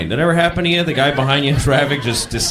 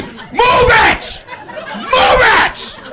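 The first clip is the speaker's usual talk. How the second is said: very high loud shout; furious driver yelling move it; screaming; 4 dB louder, much slower than usual. Retold or imitated. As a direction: bark it at the stuck driver. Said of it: "starts screaming at me".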